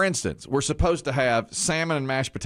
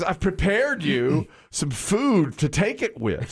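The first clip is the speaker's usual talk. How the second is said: higher, slow coaxing wife voice; higher, slow mock-gentle wife voice; imitating wife; 7 semitones higher, slower than usual. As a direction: coax him slowly like a patient wife. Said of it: "She goes".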